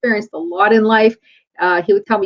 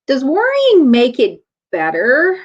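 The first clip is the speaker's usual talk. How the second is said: slow, higher-pitched measured question; unhurried questioning, leaving room for an answer; calm; 4 semitones higher, 3 dB louder than usual. Retold or imitated. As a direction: imitate a father patiently asking. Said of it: "he calmly asked me".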